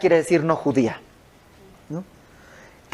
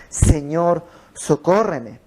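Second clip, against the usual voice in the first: súplica sincera; much slower than usual. Retold or imitated. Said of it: "ahora es".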